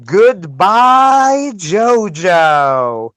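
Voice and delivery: put-on high, loud accented goodbye; Japanese accent English. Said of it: "says in English exactly like this".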